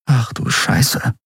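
hushed, slow whisper; breathy slow whispered swearing; whispered curse. A narrator's reading. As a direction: whisper the curse under your breath, drawn out. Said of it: "flüsterte Andriel".

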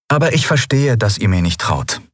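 Lien, amused and scoffing. Acted. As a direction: tease them for their fear, amused.

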